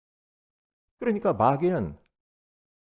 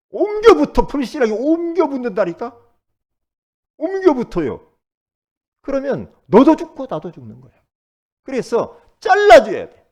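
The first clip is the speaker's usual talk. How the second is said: high, loud urgent preaching; fiery pulpit warning; full-force preaching; 11 semitones higher, 12 dB louder than usual. Acted. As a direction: hammer the warning home to the congregation.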